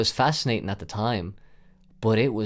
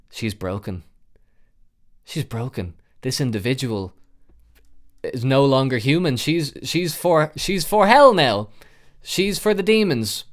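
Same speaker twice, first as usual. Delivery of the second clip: rising, louder dread to hell now; horrified inner voice; 4 semitones higher, 6 dB louder than usual. Retold or imitated. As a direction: build from hushed to appalled. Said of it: "I was like".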